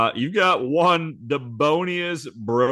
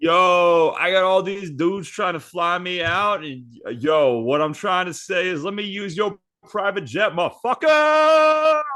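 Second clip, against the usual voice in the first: somewhat higher brash voice; Angel Reese voice; 5 semitones higher than usual. Retold or imitated. Angel Reese asking the monster for his jet, higher and brash. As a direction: brag and demand. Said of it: "She goes".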